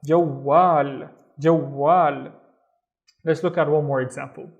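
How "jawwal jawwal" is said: "Jawwal" as jow-waal, said and repeated; careful model "jawwal"; doubled consonant demo. Shown as a demonstration. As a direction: hold the w and the last a of "jawwal". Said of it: "have to pronounce this waw twice".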